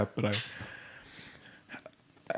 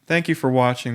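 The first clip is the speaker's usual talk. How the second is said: a cheeky, pointed repeat of Thank you for watching; defiant sign-off; 3 semitones higher than usual. Shown as a demonstration. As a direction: say it again on purpose to provoke. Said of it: "I chose violence today".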